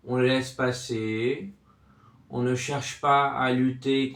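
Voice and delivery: measured, level voice with long pauses; guided relaxation. Acted. Sophrology guide tells listener to let noises pass, calm guidance. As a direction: ease the listener in, unhurried and even.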